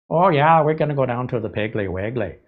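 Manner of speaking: imitating a Midwestern Scandinavian accent, Piggly Wiggly as "Peggly Weggly"; mock Wisconsin Norwegian lilt, starting high. Imagined Wisconsin shopper saying the name, Scandinavian Midwest accent. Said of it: "Norwegian, Scandinavian accent".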